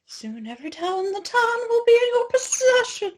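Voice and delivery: hammed-up crescendo. Narrating towel takeover to co-host, rising hammed-up high voice.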